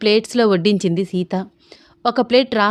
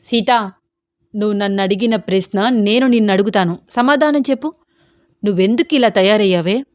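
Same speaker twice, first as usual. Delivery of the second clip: raised voice. Acted. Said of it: "గట్టిగా అన్నాడు రామ్".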